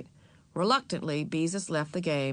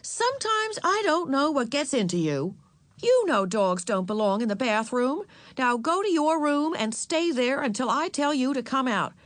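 raised-pitch motherly telling-off; exasperated; 7 semitones higher than usual. A narrator's reading. Mother sending Ramona to her room, exasperated. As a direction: scold firmly, pitch climbing with exasperation. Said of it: "Even Mother sounded exasperated".

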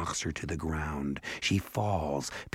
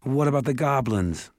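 raised, insistent question; higher, louder demanding boy; 7 semitones higher, 4 dB louder than usual. Acted. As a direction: press him for an answer. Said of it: "demanded Jared".

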